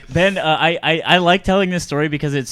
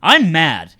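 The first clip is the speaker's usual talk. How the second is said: hammed-up announcement, raised in pitch and volume; obnoxious complaint; 3 semitones higher, 6 dB louder than usual. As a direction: broadcast mock anger to the room. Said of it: "I was being just really obnoxious".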